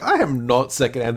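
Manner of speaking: a touch of indignant Data; lightly huffy denial; half-hearted wounded pride; mock offended. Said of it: "taking offense".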